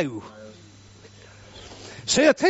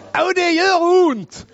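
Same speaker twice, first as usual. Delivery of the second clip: slow, emphatic higher cry of pain; 6 semitones higher, 4 dB louder, slower than usual. Acted. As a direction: drag out the hurt. Preacher stressing the pain. (långsamt, betonat utrop om smärtan)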